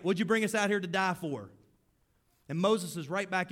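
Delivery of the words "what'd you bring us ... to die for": loud, high mock-angry outcry; angry whining. Israelites yelling insults at Moses, loud high whine. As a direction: shout down Moses like a fed-up mob.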